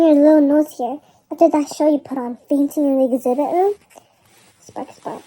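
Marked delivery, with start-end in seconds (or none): 4.6-5.2 very soft unvoiced whisper; tiny hushed sound-effect whisper; whispered spark. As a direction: breathe the words out.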